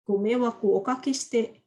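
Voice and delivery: slow, careful formal apology; a student demonstrates a slow, careful keigo apology to a superior; polite keigo apology. Shown as a demonstration. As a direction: apologise slowly and formally, as to a boss. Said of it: "kalau misalnya kita belajar keigo".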